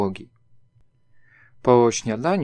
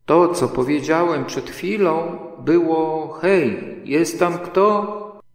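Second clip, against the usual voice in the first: higher, louder repeat; loud call; 6 semitones higher, 4 dB louder, slower than usual. A narrator's reading. Pooh repeating his call into the burrow, loud. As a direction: call it again, slowly and loud. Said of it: "zawołał Puchatek donośnym głosem".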